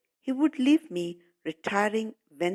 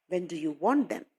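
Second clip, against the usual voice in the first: put-on light foreign accent on "want them"; accented English. Teacher imitating the shoemaker's question to children. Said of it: "it is actually his way of speaking".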